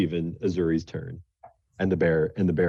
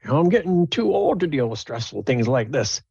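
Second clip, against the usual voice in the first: put-on higher old woman's voice; the dwarven woman thanking the party, higher and old; grateful old woman; 8 semitones higher, 3 dB louder than usual. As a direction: thank them like a frail old lady. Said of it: "It's like".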